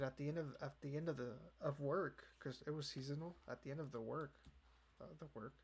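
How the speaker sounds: stumbling and restarting the phrase; tongue-tied. Real, not acted. Vlogger fumbling when the work ended, tongue-tied. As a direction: trip over the words and try again. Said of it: "I can't even speak right now".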